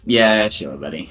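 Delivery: unconvinced, falling away at the end; blank disbelief. Acted. Player reacts to councillor's story, blankly unconvinced. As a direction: humour them without believing a word. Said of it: "a blank expression of".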